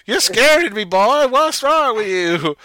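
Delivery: high, loud put-on character voice; hammed-up startled cry, stretched at the end; mock alarm. Confronted about the word Yahoo, exaggerated mock alarm. Acted reply in tramp scene.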